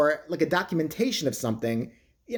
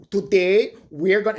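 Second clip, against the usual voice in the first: mock Mexican accent; 3 semitones higher, 4 dB louder, slower than usual. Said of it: "he talks just like that".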